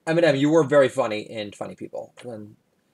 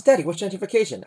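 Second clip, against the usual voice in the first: put-on child voice; 8 semitones higher, faster than usual. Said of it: "She says".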